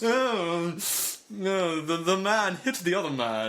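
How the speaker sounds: hammed-up snooty commentary; mock snob. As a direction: feign a connoisseur's lofty dismay. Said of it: "do the podcast like that".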